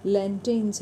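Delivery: लैंटेन्स with the R left silent. Shown as a demonstration. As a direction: say लैंटेन्स without sounding any R. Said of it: "यहाँ पर भी आर silent है". (लैंटेन्स, बिना आर की आवाज़ के)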